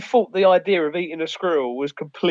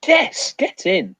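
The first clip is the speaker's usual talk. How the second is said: laughing cheer; 5 semitones higher, much slower than usual. Real, not acted. Celebrating hitting ten viewers.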